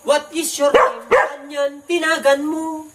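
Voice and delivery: put-on slurring drunk voice, slow; blackout drunk. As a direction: talk like you're very drunk. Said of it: "kunwari talagang lasing na lasing".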